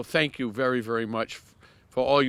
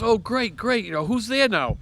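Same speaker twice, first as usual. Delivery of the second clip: imitating him; 8 semitones higher than usual. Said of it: "He goes".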